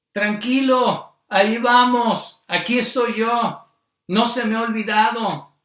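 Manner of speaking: slow, unhurried, soothing; calm a frightened father, one word at a time; gentle reassurance. Acted. Preacher voicing the Lord comforting Jairo, slow and reassuring.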